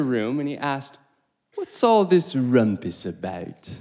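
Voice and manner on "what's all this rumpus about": mock British accent, a bit louder; a quick, badly done British accent; lightly put-on British accent. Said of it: "butchered a British accent right there".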